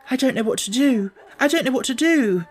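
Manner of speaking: put-on frightened girl who can't take the screaming; helpless panic. A narrator's reading. Mary at night, terrified by Colin's screams, panicking. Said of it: "she kept saying".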